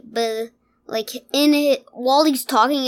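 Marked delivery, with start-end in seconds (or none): 0.0-0.5 half-formed low grunt of a syllable; soft wordless "buh"; buzzy speech noise. Shown as a demonstration. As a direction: imitate bees failing to make words. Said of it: "It's just like".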